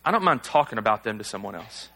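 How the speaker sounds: low, softened voice of temptation; lightly voiced sly inner thought; little inner voice. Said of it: "this little voice that says".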